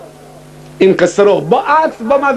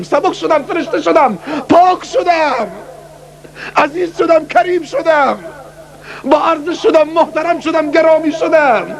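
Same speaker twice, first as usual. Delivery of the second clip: high, soaring list of blessings; rapturous build; 7 semitones higher than usual. Retold or imitated. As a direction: lift each phrase higher with joy. Rising ecstatic list of feelings.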